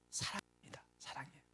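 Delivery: 속삭이듯 사랑입니다; 숨소리로 조용히 답해요; whispered answer. Acted. Answer whispered after question. (속삭이는 목소리로)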